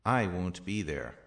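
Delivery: "I" hit firmly at the start; emphatic "I"; stress on I. Shown as a demonstration. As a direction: punch "I", let the rest fall. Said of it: "The emphatic pronouns are".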